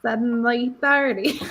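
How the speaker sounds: slow attempt at an Australian accent. Shown as a demonstration. Co-host trying the movie title on request, Australian accent. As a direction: put on a light Australian accent. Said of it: "say it in an Australian accent".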